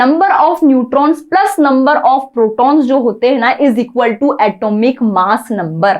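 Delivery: slow, deliberate classroom dictation. Shown as a demonstration. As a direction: read the definition out very slowly. Teacher dictating a formula.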